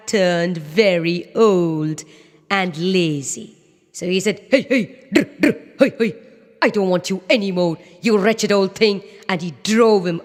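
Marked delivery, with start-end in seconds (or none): 4.5-9.0 washerman shooing the donkey, fast; a hint of an annoyed washerman; gruff washerman. Washerman drives donkey away.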